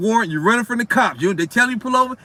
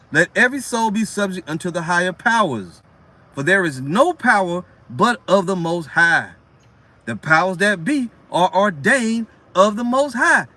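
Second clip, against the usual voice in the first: scripture reading; 2 semitones lower than usual. Acted. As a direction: read the verse with solemn weight. Reads scripture aloud.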